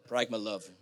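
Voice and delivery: dry, quiet aside; low deadpan. Shown as a demonstration. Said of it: "jokes mature relationship".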